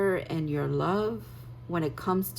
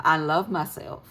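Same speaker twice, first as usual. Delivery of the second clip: a light American country accent on I love myself; a slipped-in, hinted Southern country twang; 5 dB louder than usual. Real, not acted. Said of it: "I said that in a country accent".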